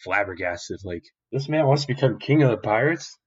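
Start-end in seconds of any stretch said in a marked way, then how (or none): 1.3-3.2 higher, mildly incredulous question; shocked Kobe. Acted. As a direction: repeat it in mock disbelief. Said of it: "Kobe is just shocked".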